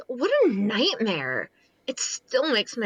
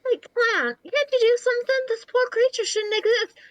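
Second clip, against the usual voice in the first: desperate plea; 12 semitones higher, faster than usual. Acted. Pleading desperately with the clown.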